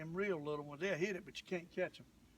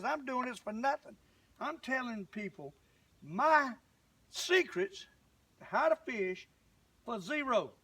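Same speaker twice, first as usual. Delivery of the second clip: indignant rise; 3 semitones higher than usual. Real, not acted. Upset at a viewer's complaint.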